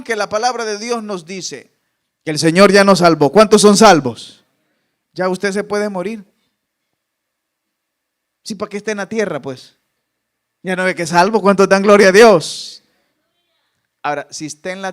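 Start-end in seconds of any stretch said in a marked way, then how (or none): 2.2-4.4 louder rallying question; booming call-out. Acted. Preacher calls out to the congregation. 11.4-12.8 louder call for praise; booming rallying question. Acted. Preacher calls out to the congregation.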